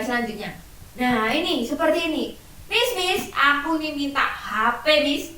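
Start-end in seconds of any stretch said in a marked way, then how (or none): 2.7-5.4 lightly voiced child nagging; pleading child. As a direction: beg the teacher like a little kid. Child asks teacher for phone.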